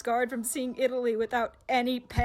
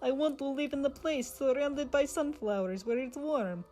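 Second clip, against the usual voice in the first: Russia's dream; 5 dB quieter than usual. Acted. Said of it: "Russia's dream".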